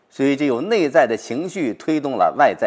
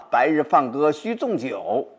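slow recitation; slower than usual. Shown as a demonstration. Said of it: "紧接着呢".

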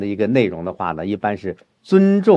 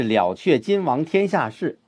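"了却君王天下事" recited raised, as the main point; key-line emphasis; 3 semitones higher than usual. Shown as a demonstration. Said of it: "因为重点是".

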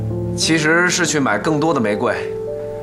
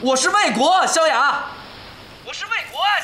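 shouting into phone; 7 semitones higher than usual. Acted. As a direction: raise your voice so she hears you. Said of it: "大声点儿".

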